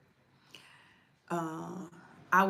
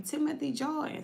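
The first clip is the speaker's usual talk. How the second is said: name a third time, rising; 9 semitones higher than usual. Shown as a demonstration. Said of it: "see the name across the T V".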